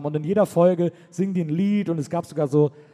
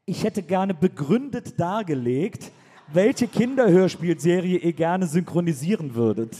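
slow, official letter tone; stern formal reading; 2 semitones higher than usual. Retold or imitated. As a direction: read it like a strict teacher. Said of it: "Christian fragt".

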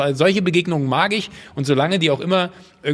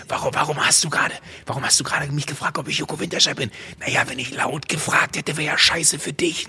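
retold whisper; 3 dB quieter than usual. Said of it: "hab dann wieder geflüstert".

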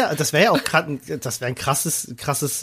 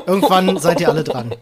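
lachend; 3 semitones higher, 5 dB louder than usual. Real, not acted. Scherz über Olli, Gelächter.

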